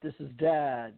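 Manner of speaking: low, gruff put-on dad voice; mother faking a dad's voice to get some peace; mock dad voice. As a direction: drop low and pretend to be the father. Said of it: "she responds".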